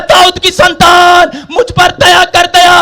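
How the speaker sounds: preacher's loud imitation of a beggar's call; crying out loudly. Blind beggar calling to Jesus for mercy, crying out loudly. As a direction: stretch the plea out in a shout. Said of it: "और जोर जोर से चिल्लाने लगा".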